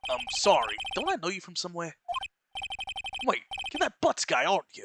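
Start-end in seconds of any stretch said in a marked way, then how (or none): 3.3-4.8 higher, louder cop recognizing someone; detective thinks he knows the lawyer, loud and higher; excited detective. Acted. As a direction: burst out with sudden recognition. Voices the detective character.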